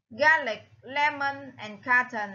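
Garlic, lemon, carton, each stressed at the start; first-syllable stress. Shown as a demonstration. Teacher lists matching words, Garlic, lemon, carton stressed on the first syllable. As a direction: lean on GAR, LEM and CAR. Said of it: "là the first stress".

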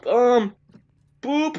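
frustrated yelp. Real, not acted. Caught by accident.

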